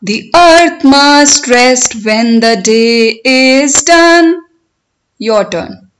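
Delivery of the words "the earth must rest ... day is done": slow, measured sing-song recitation; poem recitation. Shown as a demonstration. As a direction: recite it for learners, stretching the words, lifting line endings. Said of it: "I will recite line by line".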